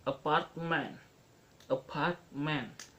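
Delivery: "apartment" stressed on the middle "part"; stress on second syllable. Shown as a demonstration. Teacher showing stress pattern two, "apartment" strong on "part". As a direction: keep the first A light and lean on "part" in "apartment". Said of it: "part is stress".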